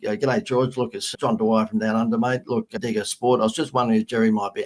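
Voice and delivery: lightly put-on Australian character voice; a hint of a hammed-up Aussie bushman; Crocodile Dundee. Marketer re-enacting his answering machine message for a celebrity's manager, lightly hammed-up Aussie. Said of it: "I did the best Crocodile Dundee".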